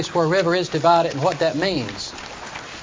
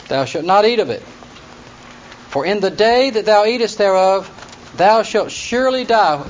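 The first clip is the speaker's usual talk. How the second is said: raised, measured Bible-reading voice; scripture reading; 2 semitones higher than usual. Acted. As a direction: read the verses out formally to the class. Reads Genesis aloud to class.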